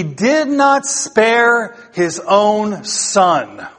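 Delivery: drawn-out, weighted words to drive the point home; slow emphatic preaching. Acted. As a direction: stretch each phrase so it sinks in.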